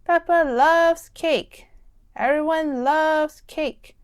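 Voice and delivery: happy sing-song. Acted. Happy ending, Peppa sums up.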